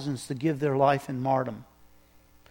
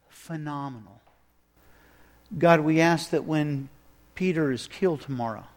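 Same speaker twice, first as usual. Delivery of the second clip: imagined prayer; 3 semitones lower than usual. Retold or imitated. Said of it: "praying something like this".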